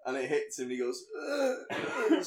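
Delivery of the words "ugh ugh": mock groan of being shot; slow-motion groan. Retelling a film character getting shot, mock slow-motion groan. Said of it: "slow motion".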